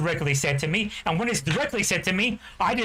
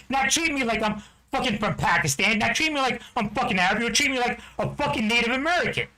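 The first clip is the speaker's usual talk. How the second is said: pitched higher, heated and insistent, driving each question home; rising anger; 4 semitones higher than usual. Real, not acted. Veteran ranting at people who disrespect him, heated and higher. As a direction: let the resentment boil over into a real rant.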